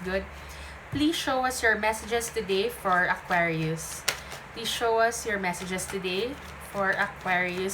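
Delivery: prayer. Acted. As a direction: call on the guides reverently. Invocation to spirit guides.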